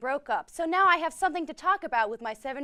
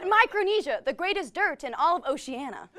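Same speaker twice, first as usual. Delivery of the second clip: rally speech; 3 dB louder than usual. Acted. Hosts hyping Micronesia like slogans.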